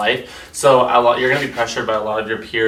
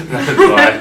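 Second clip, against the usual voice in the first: squeaky; 10 dB louder than usual. Real, not acted. Squeaky laughing reply.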